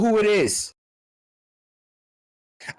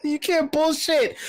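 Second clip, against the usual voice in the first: mock stretched voice; 6 semitones higher than usual. Mocking, repeating the catchphrase.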